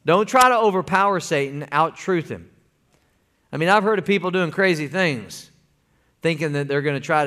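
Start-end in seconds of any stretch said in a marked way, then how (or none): 0.1-2.5 louder, punched "Don't try to overpower Satan"; emphatic repeat. Shown as a demonstration. Preacher hammering the point to the church, louder. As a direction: drive the slogan home the second time. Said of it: "Remember when I said that".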